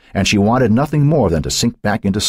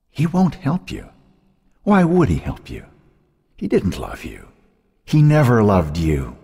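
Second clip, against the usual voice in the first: cruel ghostly tormentor; taunting sister; 4 semitones higher than usual. A narrator's reading. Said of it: "Her sister's voice".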